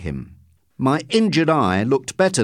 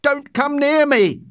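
high-pitched, louder cry of alarm; frightened shout; 14 semitones higher, 4 dB louder than usual. A narrator's reading. Postmistress warding off the man in the doorway, shouting. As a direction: shout it high to keep him away. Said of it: "she shouted".

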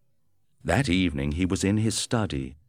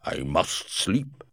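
wounded Griffin; slower than usual. A narrator's reading. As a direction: drag the words out in pain. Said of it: "he said".

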